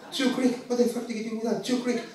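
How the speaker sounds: hammed-up indignant ranting; retold anger. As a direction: repeat it in offended disbelief. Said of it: "I was so angry".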